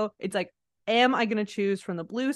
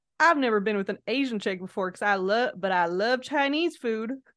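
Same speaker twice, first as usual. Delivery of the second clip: put-on southern accent. Retelling what a guy named Ashley said, the speaker imitates Ashley's southern accent. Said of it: "with a southern accent going".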